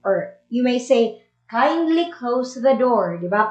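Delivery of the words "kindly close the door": mild and courteous; polite request. Shown as a demonstration. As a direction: ask kindly, without any force. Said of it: "Parang iba yung dating niya kaysa sa stop".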